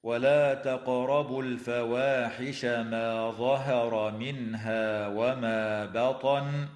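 slow melodic chant; Quran recitation. Shown as a demonstration. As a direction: intone the verse like a reciter. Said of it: "قوله تعالى".

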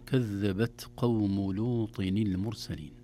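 slow, measured verse recitation; Quran recitation. Shown as a demonstration. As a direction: recite the verse slowly and carefully. (تلاوة متأنية)

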